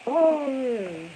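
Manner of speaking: high, loud laughing words; laughing hard. Real, not acted. Cracking up at his own joke, laughing loud and high. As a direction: break up laughing through the words.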